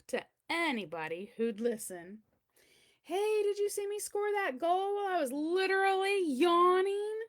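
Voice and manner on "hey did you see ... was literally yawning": bragging. Retold or imitated. Bragging quote of himself.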